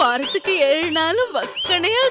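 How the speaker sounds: shouted comic lament over going to jail; comic panicked wailing. Acted. Frightened sister wailing that she'll go to jail. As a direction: wail as if the world has ended.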